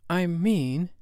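tactful hostess tone; nicely polite. A narrator's reading. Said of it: "Wendy said nicely".

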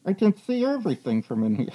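talking past a stuck-out tongue; tongue sticking out. Acted. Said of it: "I can't stick my tongue out of my mouth to talk normally".

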